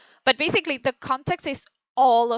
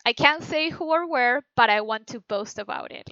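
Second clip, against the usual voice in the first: boastful. Shown as a demonstration. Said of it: "I said".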